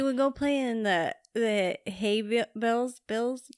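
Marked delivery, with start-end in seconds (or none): 1.3-3.5 tripping over the words; stumbling, slow stammer; stuttering. Real, not acted. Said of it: "why are you stuttering".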